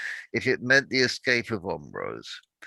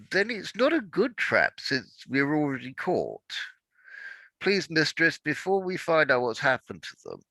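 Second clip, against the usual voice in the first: raised, pressing voice of a devoted slave; urgent loyal servant; 6 semitones higher than usual. Acted. Awa urging her mistress to flee, urgent and firm. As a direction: push her to follow, firmly and urgently.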